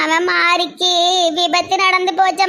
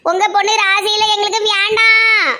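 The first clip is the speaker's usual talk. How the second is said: wailing shout; 3 semitones higher than usual. Acted. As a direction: cry it out in a keening shout. Mother-in-law wailing her refusal.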